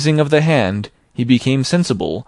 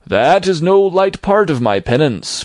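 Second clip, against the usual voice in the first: a tormented ghost's raised, grieving lament; mournful ghost; 7 semitones higher, 4 dB louder than usual. A narrator's reading. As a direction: declaim it as a ghost full of regret. Ghost speaking.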